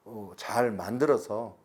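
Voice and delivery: ordinary delivery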